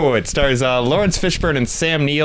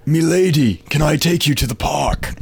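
mock courtly suitor; 4 semitones higher than usual. Hamming up Dangerous Liaisons suitor.

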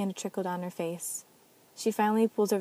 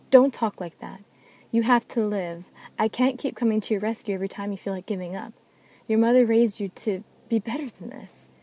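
put-on louder, sharp scolding of a child; stern scolding; 3 semitones higher, 7 dB louder than usual. Ananiel scolding little Kylan after the backslap, loud stern scolding. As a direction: scold her hard to shake her out of it.

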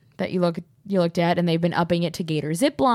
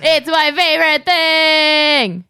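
higher, slow, laughing hard; real giggling fit; 6 semitones higher, 5 dB louder, slower than usual. Real, not acted. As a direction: squeal it through tears of laughter.

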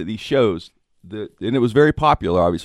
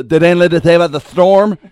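mock news-bearer; 9 semitones higher, 13 dB louder than usual. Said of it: "You know".

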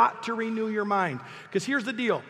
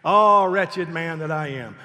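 slow, louder hammed-up wail of self-pity; mock lament; 4 semitones lower, 5 dB louder than usual. Preacher mocking Paul's self-pity to the congregation, slow hammed-up wail. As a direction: ham up Paul's misery, dragging it out. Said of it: "He called himself a wretched man".

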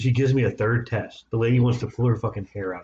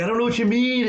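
exasperated self-quote; 12 semitones higher than usual. Retold or imitated. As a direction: squeak it out like a baffled patient. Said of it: "So I'm like, I'm like".

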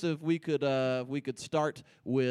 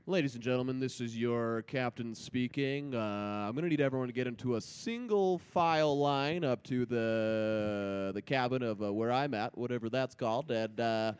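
intercom announcement; 5 semitones lower, 3 dB quieter than usual. Acted. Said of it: "announcement over the intercom".

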